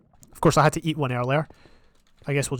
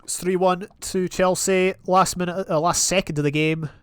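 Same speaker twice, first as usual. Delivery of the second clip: put-on half-hearted London accent sports commentator; mock London football commentator; 2 semitones higher than usual. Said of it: "I do apologise for my, I don't even know what accent that is".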